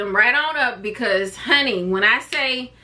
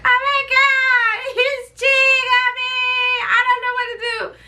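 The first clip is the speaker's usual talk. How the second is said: hammed-up distraught cry, rising to a fast whimper; retold panic; 14 semitones higher than usual. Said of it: "I was like".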